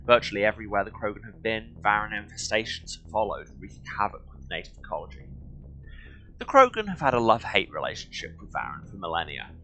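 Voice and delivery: measured documentary-style read-aloud. Acted. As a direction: read it out like an encyclopedia entry. Reads game codex aloud.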